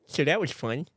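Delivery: put-on lisping drunk character voice. Joker re-enacting the Uber prank, lisping. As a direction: slur the s sounds in a mock lisp. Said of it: "I just remember the accent".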